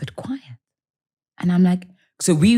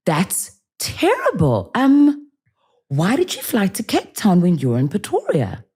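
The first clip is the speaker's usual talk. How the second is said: mock concern; 5 semitones higher than usual. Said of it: "But I like to play".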